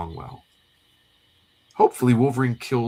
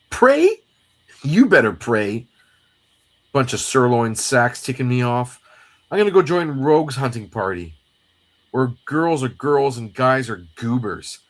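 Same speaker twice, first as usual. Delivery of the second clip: indignant comic sidekick; 2 semitones higher, 5 dB louder than usual. Acted. Jubilee storming off to another party, hammed-up indignation.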